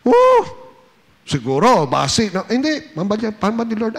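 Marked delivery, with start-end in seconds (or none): 0.1-2.3 mock doubtful Peter. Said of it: "Hindi siya kwan, ha?".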